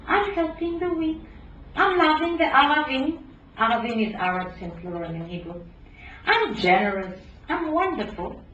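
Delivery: high mocking self-praise voice; mocking leftists. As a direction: parody the smug do-gooder. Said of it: "These Ashkenazi leftists raise their self-esteem, saying".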